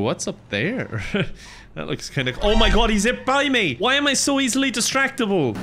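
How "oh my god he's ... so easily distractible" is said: high-pitched, startled exclamation; startled outburst. Real, not acted. Gamer hit by a car while distracted, startled. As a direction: yelp it out in real surprise.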